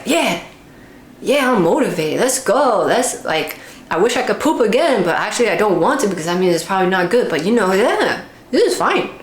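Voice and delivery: excited cheering. Retold or imitated. Talking to her own body, bursting with excitement. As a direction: hype yourself up after a win. Cheering after a good poop.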